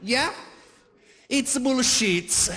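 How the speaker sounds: put-on high, slow Italian-accented dismissal; mock Italian dad, drawn out; Italian father. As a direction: scoff in an exaggerated Italian accent. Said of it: "like my Italian father".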